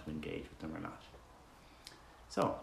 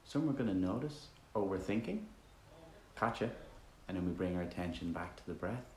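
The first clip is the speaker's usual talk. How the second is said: easygoing meditation guide, softer toward phrase ends; relaxed, conversational meditation leading with roomy silences; guided meditation; 7 dB quieter than usual. Acted. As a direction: guide listeners gently with long pauses between instructions.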